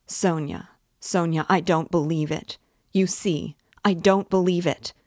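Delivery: a touch of tender defiance; cling to her, refusing to believe; Katerina crying out. Acted. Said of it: "she cried".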